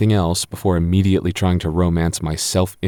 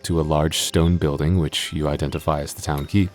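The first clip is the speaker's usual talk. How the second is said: scene setting narration; 3 semitones lower than usual. Acted. DM describing the town to the party, storyteller voice. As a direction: paint the town for the players.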